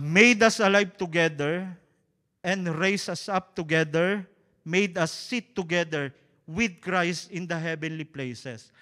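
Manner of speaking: "made" and "together" stressed, loud and slow; emphasized phrase. Shown as a demonstration. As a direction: lean on "made us alive together". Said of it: "Gusto kong bigyan ng emphasis". (diin sa "made" at "together")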